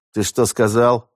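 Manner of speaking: slow, icy menacing question. Acted. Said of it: "ледяным голосом осведомился Франт".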